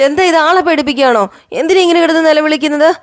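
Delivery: jolted awake, scold him; startled complaint. Acted. Revathi woken suddenly by Sachi, startled and scolding.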